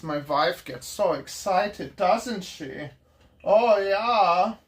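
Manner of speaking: mock German accent, slow in places. A joking German accent to the camera, no shouting. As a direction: ham up a German tourist accent. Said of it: "Or I can be German".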